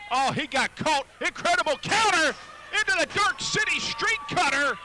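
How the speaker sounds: loud rising finish call; excited call. Real, not acted. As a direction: call the winning pin with a burst. Finish called live.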